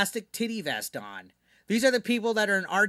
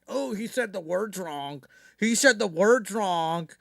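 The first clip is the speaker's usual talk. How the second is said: mocking a critic; slower than usual. Mocking his critics' complaint.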